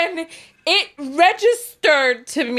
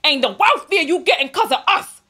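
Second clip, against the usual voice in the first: put-on sassy kid; 4 semitones higher, 4 dB louder than usual. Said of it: "imagine the type of child that would be talking to their aunt".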